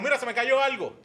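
high, feigned casual excuse; mock innocent excuse. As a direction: pretend you dropped something, sing-song. Actúa excusa al prender luz. (excusa fingida con voz aguda)

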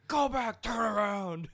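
high, loud, desperate yell; frantic demand. Retold or imitated. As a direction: yell it like a panicking passenger. Brother keeps shouting at driver.

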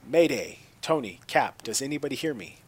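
urgent shouted distress call; mayday radio call. Acted. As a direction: call out for help over the radio. Rhodey calls for help.

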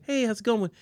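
retold casual greeting. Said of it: "before, people used to be like".

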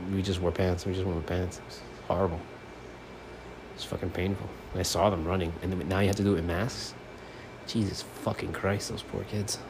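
quiet, subdued rambling; low, subdued. Real, not acted. Host remembering hot gym runs in pants, subdued. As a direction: let the voice sink, soft and low-key. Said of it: "I don't know why I'm talking so low".

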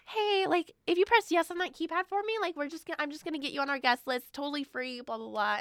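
a hint of a bubbly anime girl, coaxing; mild put-on girly sales voice. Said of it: "the anime girl voice".

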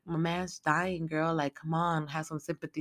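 put-on hushed, pleading old woman; soft pleading. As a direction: beg softly for sympathy. Grandma pleading for sympathy.

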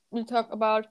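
talking around a candy; words muffled by a bonbon; mouth full. Real, not acted. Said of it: "I have a bonbon in my mouth".

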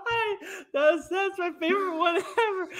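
high laughing voice. Real, not acted. Host recalling his favorite blooper, laughing high. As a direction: still giggling over his words.

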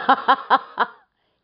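a raspy spirit teasing; hoarse voice. A narrator's reading. Frost spirit teases the old man, hoarse and laughing. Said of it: "exclamă un glas răgușit".

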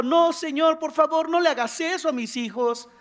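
high, loud mock-distressed plea; acted wail of protest without real tears; tearful pleading. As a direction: beg as an upset parent would. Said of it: "estamos llorando".

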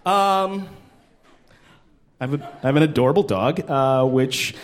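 ordinary delivery

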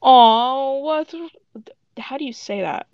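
lightly put-on baby voice; cooing like to a baby; babyish. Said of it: "And Shatton's babyish, like".

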